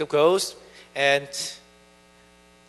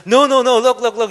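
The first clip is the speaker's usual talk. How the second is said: freaking out; 5 semitones higher, 7 dB louder than usual. Retold or imitated. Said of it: "freaks out".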